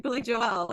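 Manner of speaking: A singer's name with the surname as jo-EL; misplaced stress. Retold or imitated. Playing along with the joke, the surname stressed as jo-EL. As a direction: push the stress onto the end of the surname. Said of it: "emphasis on the wrong syllable".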